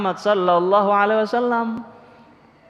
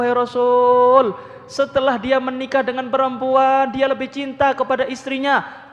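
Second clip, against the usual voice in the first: put-on higher, louder tearful pleading of an old mother; crying mother; 5 semitones higher, 3 dB louder than usual. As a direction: plead with the Prophet as if through tears. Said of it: "Ibunya Alqamah nangis". (ibu tua mengadu sambil menangis, suara lebih tinggi dan keras)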